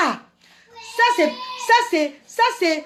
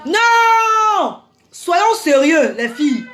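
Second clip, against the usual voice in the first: firm shout; much slower than usual. Real, not acted. Stops the mock chant.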